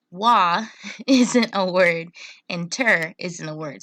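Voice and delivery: "wa" and "ter" said as separate syllables; split syllables. Shown as a demonstration. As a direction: isolate "wa" then "ter". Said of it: "But I know".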